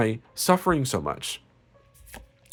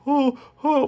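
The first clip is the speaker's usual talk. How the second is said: mocking the ex; 4 dB louder than usual. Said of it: "he's like".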